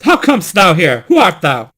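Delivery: terrified. Acted. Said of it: "he sprang back, terrified".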